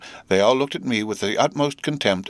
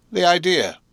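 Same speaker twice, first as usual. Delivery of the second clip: The idea said high and shocked; high exclamation; 9 semitones higher than usual. A narrator's reading. Camilla ends her complaint with a high, shocked The idea. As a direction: shriek The idea in outrage.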